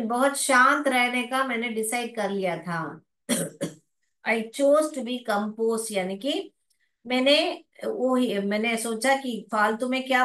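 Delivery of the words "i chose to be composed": slow, word by word; slow model reading. Shown as a demonstration. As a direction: read it slowly. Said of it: "model reading". (धीरे-धीरे पढ़ना)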